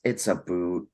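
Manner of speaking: low, soft, deadpan shade. Real, not acted. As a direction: drop it flat and low. Deadpan mock apology to Anna.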